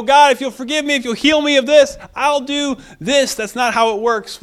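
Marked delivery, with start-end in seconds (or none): 0.0-3.3 high-pitched pleading negotiation; imitating someone cutting a deal; mock bargaining. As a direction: haggle urgently in a raised voice. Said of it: "We don't bargain and go".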